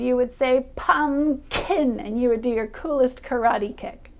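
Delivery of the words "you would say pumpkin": slow demo word. Shown as a demonstration. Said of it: "So on that k sound".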